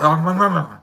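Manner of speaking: satisfied food moan; stuffed contented moan. Retold or imitated. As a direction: groan happily like you've eaten too much. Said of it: "I'm like".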